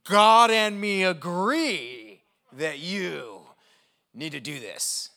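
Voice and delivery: slow, loud, preachy mother laying down the law; a light mock of a stern mother; bossy Christian mom. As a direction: lay it down like a mom who's sure God agrees. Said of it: "it's gonna be like".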